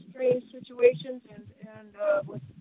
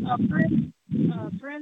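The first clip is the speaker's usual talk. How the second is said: bad phone line dropping words; breaking up. Real, not acted. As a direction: voice cutting in and out. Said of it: "You're breaking up".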